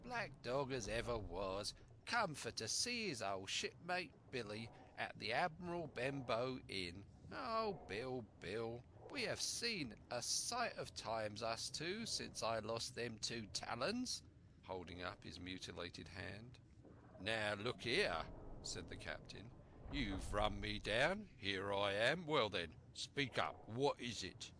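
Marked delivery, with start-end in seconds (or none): 0.0-14.2 lightly voiced sly old sailor, sure of himself; a hint of a crafty buccaneer; at ease pirate. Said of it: "getting more at his ease". 17.2-24.5 loud blunt sea captain demanding answers; gruff captain. Acted. Captain confronts his old shipmate.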